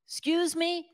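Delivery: high, startled excuse me; a waitress who can't believe the question; incredulous. Retold or imitated. Waitress stunned by the customer, high and startled.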